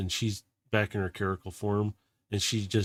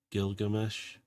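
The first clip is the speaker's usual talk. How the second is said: softer, quiet and deadly serious; 6 dB quieter, slower than usual. Acted. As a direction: say his full name like a warning. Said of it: "says your full name, just dead serious".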